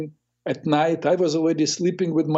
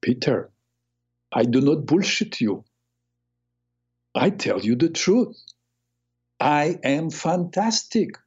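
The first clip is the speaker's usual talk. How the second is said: put-on Italian accent; 3 semitones higher than usual. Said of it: "looked me in the eyes and say".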